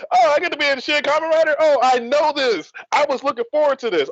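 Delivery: high-pitched, giddy retelling; retold excitement. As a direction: act out being thrilled at the news. Retold thrill at movie role.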